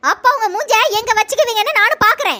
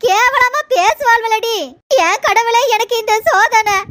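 slow lament; slower than usual. Acted. Mother laments her shame.

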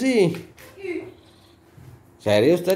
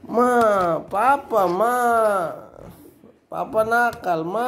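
imitating whiny child; 4 semitones higher, much slower than usual. Father mimics crying kid.

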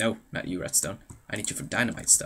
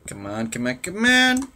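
building to an exasperated shout; 6 dB louder than usual. Real, not acted. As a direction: urge it on, last one yelled. Urging on something in game.

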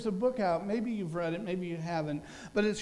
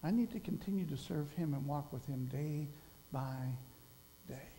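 sincere resolve; 3 semitones lower, 6 dB quieter than usual. Retold or imitated.

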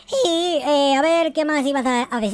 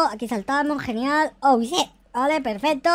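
usual speaking voice

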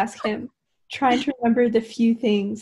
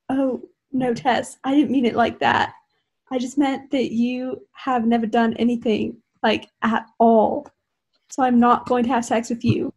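lightly voiced English accent. Hardin explains himself to Tess, light English accent. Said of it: "Don't forget Hardin's accent".

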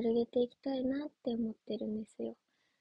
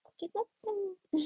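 higher, softer mock cock-a-doodle-doo; rooster crow imitation; 7 semitones higher, 5 dB quieter than usual. Idol clowning for her viewers with a higher, softer mock rooster crow. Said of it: "コケコッコーなんて".

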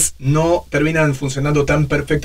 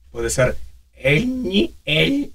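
voice cracking; 3 semitones higher, slower than usual. Shown as a demonstration. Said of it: "cómo quiebro a propósito".

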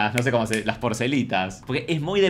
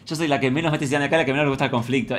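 imitando a Rosita; faster than usual. Retold or imitated. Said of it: "con esa voz como de bolú".

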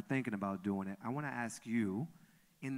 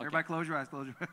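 rally the audience to shut their eyes; playful command; 6 semitones higher, much faster than usual. Real, not acted. Host urging audience.

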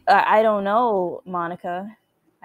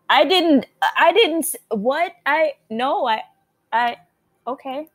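higher, stammering denial; flustered protest; 4 semitones higher than usual. Real, not acted. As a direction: stumble over a startled defense. Flustered reply to game's accusation.

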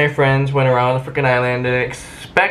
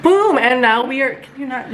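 excited; 8 semitones higher than usual. Real, not acted. Vlogger's excited reveal.

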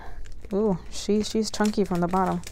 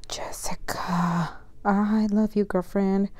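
tender whisper; 3 dB quieter, slower than usual. Real, not acted. Touched by gift.

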